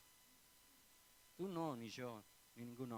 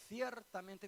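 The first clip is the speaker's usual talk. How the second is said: "Ciertamente" said firmly, a touch raised; stressed ciertamente; 7 semitones higher, 3 dB louder, slower than usual. Shown as a demonstration. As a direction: lean on "Ciertamente" as a warning. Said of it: "mire, estén muy atentos".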